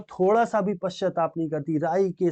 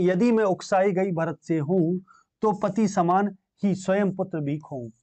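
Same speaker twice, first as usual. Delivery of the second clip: poem recitation; 3 semitones higher than usual. Acted. Teacher voicing Kaikeyi's oath to the assembly, measured recitation.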